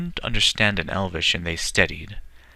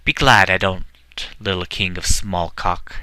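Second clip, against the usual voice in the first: shouted taunt; 4 dB louder than usual. Acted. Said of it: "He shouted".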